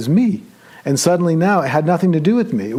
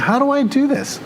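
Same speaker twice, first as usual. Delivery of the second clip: Byrne-style bewilderment; 8 semitones higher than usual. Retold or imitated. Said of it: "That was exactly what I was".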